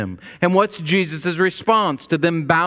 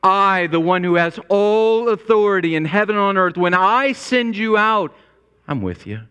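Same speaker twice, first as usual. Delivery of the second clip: commanding king; 6 semitones higher than usual. Retold or imitated. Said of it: "the king is saying".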